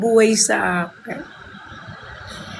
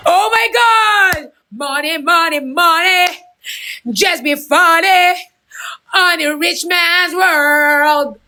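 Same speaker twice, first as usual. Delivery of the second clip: thrilled yelling over a gift; excited shout; 6 semitones higher, slower than usual. Real, not acted. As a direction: shriek it with joy. Excited livestream gift reaction.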